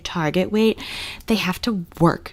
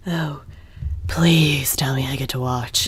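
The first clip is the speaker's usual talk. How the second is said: whispered quote; 5 semitones lower, slower than usual. Retold or imitated. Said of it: "because he's like".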